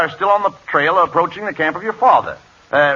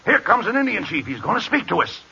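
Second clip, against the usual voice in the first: lowered, softer voice; hushed warning; 2 semitones higher, 6 dB quieter than usual. Acted. Scout warning Buffalo of the approaching chief, hushed. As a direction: keep it down as someone approaches.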